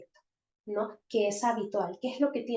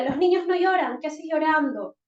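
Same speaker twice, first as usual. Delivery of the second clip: higher, louder stern rebuke; scolding parent; 4 semitones higher, 4 dB louder than usual. Shown as a demonstration. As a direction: tell the boy off for crying. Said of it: "Hay otra frase conocida". (regaño severo, más alto y fuerte)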